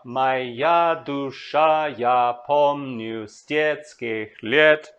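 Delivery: very slow, each syllable apart, beats leaned on; very slow scanning of the Russian line; syllable-by-syllable scansion. Shown as a demonstration. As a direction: spell the rhythm out slowly for students. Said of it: "look carefully at what is done here".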